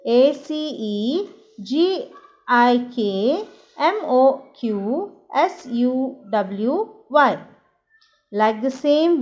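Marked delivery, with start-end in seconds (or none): 0.1-7.4 each letter called out clearly for the class; letter-by-letter demo. Shown as a demonstration. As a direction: recite the letters slowly, one by one, for students to copy. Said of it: "you have to say like this". (शिक्षक छात्रों को दिखाते हुए, हर अक्षर साफ़ बोलते हैं)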